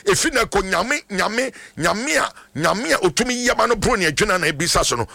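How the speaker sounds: fervent prayer. Real, not acted. Prays for a caller on air.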